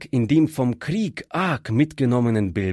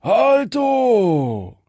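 "Halto" hoch und laut gerufen, fallend; zweiter Banditenruf; 9 semitones higher, 4 dB louder than usual. Acted. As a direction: ruf "Halto" laut und hoch von der anderen Seite. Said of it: "schallte es auch von dort". (lauter, hoher Ruf "Halto")

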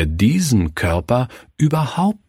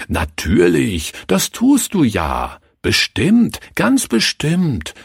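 comforting; 6 semitones higher than usual. Acted. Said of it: "tröstete er sie".

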